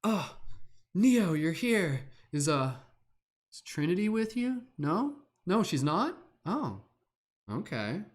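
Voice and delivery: swooning fan. Acted. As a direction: play someone gushing at Neo, then deflating. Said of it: "be like, be like".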